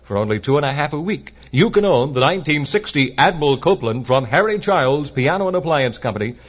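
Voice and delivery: bright, upbeat radio ad read; chipper 1950s ad. Acted. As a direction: sell it like a fifties pitchman. DJ reads a live store ad.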